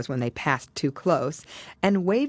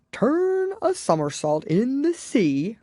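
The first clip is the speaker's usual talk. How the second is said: cried out; 8 semitones higher, slower than usual. A narrator's reading. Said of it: "cried the Mock Turtle".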